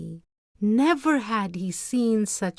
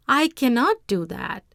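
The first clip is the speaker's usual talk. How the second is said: trembling; 6 semitones higher, 5 dB louder than usual. Acted.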